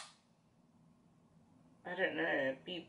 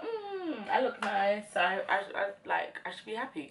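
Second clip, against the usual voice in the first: a light laughing voice trying the words on; half-laughing as she plays her made-up self; giggly self-talk; 4 semitones higher than usual. Retold or imitated. Vlogger imitating her happy self in the mirror, giggling. Mimics self after makeup.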